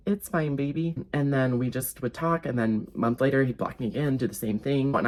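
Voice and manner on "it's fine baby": lightly sweet mock-forgiving; sweet reassurance. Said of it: "I was very sweet and poetic and just said".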